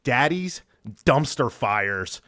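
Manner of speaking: slow, drawn-out show-title announcement; a slow, playful announcer reveal of the segment name. Pretend. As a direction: announce the segment like a host unveiling it. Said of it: "new segment this week. Your segment, your baby".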